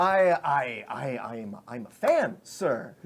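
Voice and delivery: stuttering, flustered fan; starstruck stammer. Acted. Goblin guard confessing he's a fan, starstruck stammer. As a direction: stumble over the first words, overawed.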